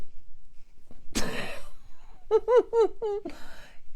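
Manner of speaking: long high breathy laughter; long airy laugh. Real, not acted. Mother laughing at her mind trick working, long laugh.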